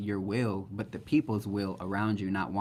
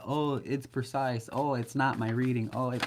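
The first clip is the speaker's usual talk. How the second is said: a higher, slowed-down parody of a fussy client; mocking whiny quote; 3 semitones higher than usual. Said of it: "please save the bullshit with all the".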